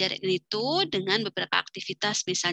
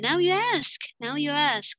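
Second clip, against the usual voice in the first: higher teacher prompt; handing over; 5 semitones higher, slower than usual. Shown as a demonstration. Teacher telling a student to ask now, higher. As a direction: pass the question over.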